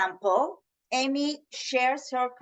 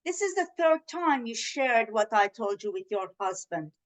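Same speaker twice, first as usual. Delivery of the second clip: soft, quieter, gentle and sincere; calm honest request; 3 semitones lower, 4 dB quieter than usual. Shown as a demonstration. Woman calmly telling her sister about broken trust, gentle. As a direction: tell her kindly how it hurt. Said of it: "So instead".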